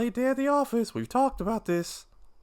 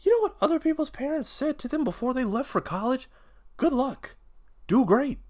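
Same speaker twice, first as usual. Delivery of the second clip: high, raised voice full of hurt; bitter tirade; 9 semitones higher, 5 dB louder than usual. Acted. P J to his father about leaving for college, bitter tirade. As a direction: build angrily towards the final question. Son lists what he never heard.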